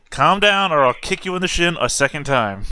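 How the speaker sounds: high, loud command easing into a threat; exasperated warning. Acted. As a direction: order them to settle down, sharply. Acted threat to hysterical companion.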